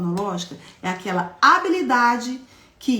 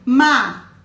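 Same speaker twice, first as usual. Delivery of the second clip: macaco split slowly into ma-ca-co; teacher showing children the syllables of macaco; slow syllable demo; 5 dB louder than usual. Shown as a demonstration. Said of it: "Olha aqui".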